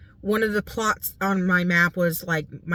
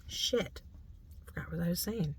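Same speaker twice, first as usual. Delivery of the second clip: trailing off; 12 dB quieter than usual. Real, not acted. Loses track of what she said.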